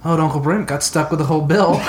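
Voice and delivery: chuckling through the words; laughing. Real, not acted. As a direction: laugh while you say it. Laughing while telling money story.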